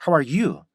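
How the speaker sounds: "you" weighted and falling in "How are you?"; stress on YOU. Shown as a demonstration. Teacher shows emphasising the other person, stressed "you". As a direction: lean on "you". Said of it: "상대방을 좀 더 강조할 때는".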